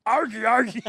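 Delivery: mock catcall grunt. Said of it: "It's just mainly like".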